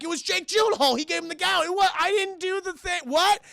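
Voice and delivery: high, alarmed back-and-forth; high-pitched comic outrage; mock accusation and protest. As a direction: act out a startled, indignant denial. Accusers and startled accused acted out.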